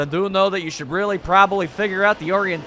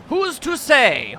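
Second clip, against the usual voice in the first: slow, higher, stretched question; lilting slow "Who's to say?"; drawn-out musing; 6 semitones higher, much slower than usual. Shown as a demonstration. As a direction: let it hang up high and slow. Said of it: "repeated take".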